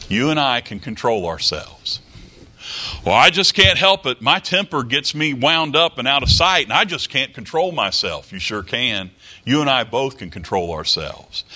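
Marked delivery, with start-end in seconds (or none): 3.1-8.3 a hammed-up protest that starts loud and high and then settles; mock excuse-maker. Preacher mocking a hot-tempered believer, loud mock whine. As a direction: play the man blaming his temper, whining his excuse.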